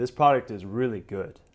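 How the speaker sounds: falling pitch at the end on good. Showing how to sound confident, falling pitch on good. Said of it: "by saying downtone".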